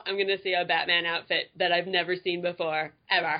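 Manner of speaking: normal talking voice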